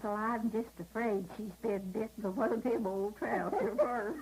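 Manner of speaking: chuckling through the last words; giggling the punchline; laughing punchline. Real, not acted. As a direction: let the laugh break into the line. Punchline delivered while laughing.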